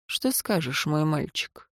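soft, low, mocking; quiet menace. A narrator's reading. Adviser mocking the servant, soft and low. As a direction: purr it like a quiet threat.

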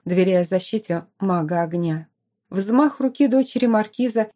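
usual speaking voice

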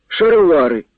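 "Шаровари!" cried out high and loud, falling at the end; "Шаровари!" as a startled, loud, high shout at the trousers; surprised exclamation. A narrator's reading. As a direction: blurt "Шаровари!" in astonishment. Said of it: "здивувався".

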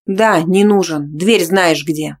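loud, slow, rasping; hoarse shout. Acted. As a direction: rasp it after him. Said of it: "уже хрипела я".

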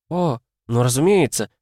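put-on high, carefree chirping girl; chirpy girl voice. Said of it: "беззаботно отмахнувшись, прощебетала Энни".

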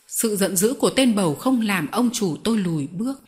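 plain reading voice

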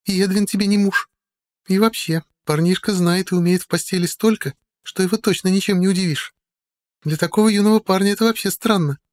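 put-on drunk. A narrator's reading. Drunk Kiria continues.

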